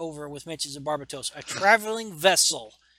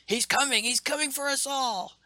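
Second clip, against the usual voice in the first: much higher, frantic android wail; hammed-up robot prophecy; robot doom cry; 9 semitones higher than usual. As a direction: cry the doom like a crazed machine. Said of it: "using his tornado powers".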